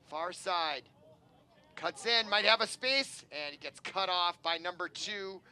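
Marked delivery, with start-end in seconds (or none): 1.8-3.2 excited call. Real, not acted. Commentator calls a scoring chance.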